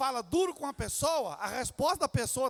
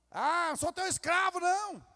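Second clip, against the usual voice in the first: louder, sneering snap back; sarcastic retort; 4 semitones higher, 6 dB louder than usual. Retold or imitated. Husband mocking his wife's request, sarcastic and louder. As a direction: throw the question back at her with scorn. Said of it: "Se der uma resposta assim".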